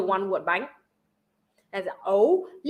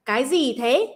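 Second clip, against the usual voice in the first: demonstrated Northern Vietnamese with a z sound in gì; Northern Vietnamese accent. Shown as a demonstration. Showing listeners how the North asks it, Northern Vietnamese accent. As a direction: say it as Hanoi Northerners do. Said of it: "in the North, they say like".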